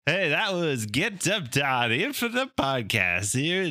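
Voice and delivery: slow, drawn-out radio announcer; radio host voice. Pretend. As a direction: deliver it like a DJ sign-off. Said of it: "I did my radio voice".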